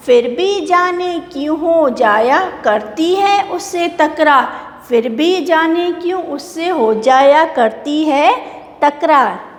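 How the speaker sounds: put-on sing-song recital of a children's poem, lines repeated; poem recitation. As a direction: chant the poem for the class to repeat. (बच्चों की कविता लय में सुनाना)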